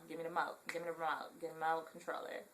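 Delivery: "remote" cut down to "mote"; re- dropped. Shown as a demonstration. Vlogger demonstrating household slang, re- dropped. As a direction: say "remote" and "remote controller" without the "re". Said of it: "We don't even say re nothing".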